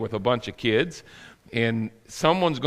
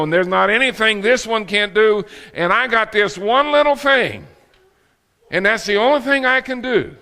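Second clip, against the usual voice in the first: high, louder envious grumble; mock self-pitying complaint; 7 semitones higher, 4 dB louder than usual. Preacher plays one-talent man eyeing others, pitched-up self-pity.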